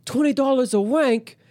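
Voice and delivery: high-pitched, badly faked British accent; shocked question in a hammed-up British accent; horrible British accent. British student hears the fake charge, horrible British accent. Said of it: "I have a horrible British accent".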